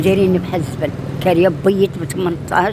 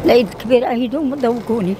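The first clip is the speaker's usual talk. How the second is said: angry crying; 4 semitones higher than usual. Real, not acted. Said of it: "ما تبكيش الحاجة،".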